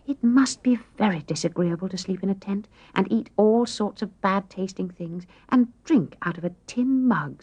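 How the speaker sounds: a hint of a sighing, fussy younger girl; sighing complaint. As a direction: complain with a light sigh. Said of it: "sighed Amy".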